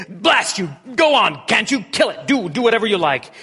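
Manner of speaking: high, loud, cracking shout; desperate outburst. Acted. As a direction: fling the words out in torment. Ghost gives way in despair.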